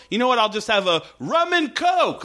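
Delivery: pointed, knowing delivery as a code word; mock signal line. Friend mocking a character's signal line, pointed. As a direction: say it like a secret signal. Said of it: "he says it like that, like it's a signal".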